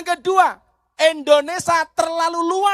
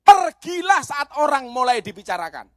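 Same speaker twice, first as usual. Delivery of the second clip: preached line. Shown as a demonstration. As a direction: call it out like a maxim. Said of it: "Saya ulangi". (seruan nasihat dengan suara lantang)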